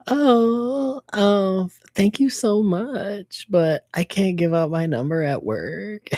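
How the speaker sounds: high, sweet fake-polite voice, slowing on the thanks; sugary customer-service letdown; polite brush-off. To a customer asking for her number, sweetly polite. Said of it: "and I'm just like".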